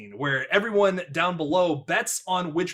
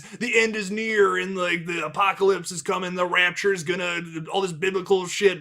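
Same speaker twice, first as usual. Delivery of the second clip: mock apocalyptic rant, pitched higher; slightly hammed-up doom prophecy; doomsday rant; 4 semitones higher than usual. Podcaster imitating Mordecai's end-is-near rant, mock ranting. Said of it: "going on this rant".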